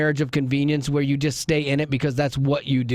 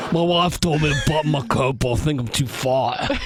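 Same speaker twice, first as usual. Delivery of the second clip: Bernie with a Cockney slip; 4 semitones lower than usual. Acted. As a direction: lower Bernie impression slipping into Cockney. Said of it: "That sounded a little English".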